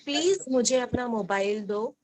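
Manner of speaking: rising polite please; polite request. Shown as a demonstration. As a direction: ask nicely, lifting the end. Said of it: "ऐसे नहीं".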